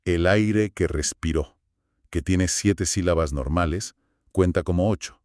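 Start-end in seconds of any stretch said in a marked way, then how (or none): 0.0-1.6 "el aire que respiró" recited slowly, stressing the final "respiró"; slow scanning of "el aire que respiró"; slow recited verse. Shown as a demonstration. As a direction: read the line as a measured verse. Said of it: "Por eso un verso como".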